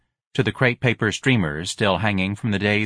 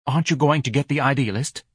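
fussy wife voice; 5 semitones higher than usual. Acted.

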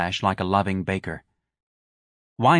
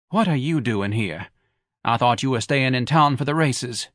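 Mrs Levy's voice. Acted. Wife sniping at her husband who skipped the races. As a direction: needle him with every word.

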